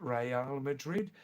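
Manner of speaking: Real as slow "ray-AHL", in two syllables; correct Spanish pronunciation. Shown as a demonstration. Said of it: "Number one".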